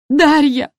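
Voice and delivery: high, loud call across the yard; shouting a name. A narrator's reading. Elena calling the narrator from the house, shouting. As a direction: yell for Darya. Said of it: "закричала Фесунова".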